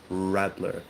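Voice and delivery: RADLER with a held English R; RADLER pronounced the English way. Shown as a demonstration. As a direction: lean on the front-of-mouth R in RADLER. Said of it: "with an R like that".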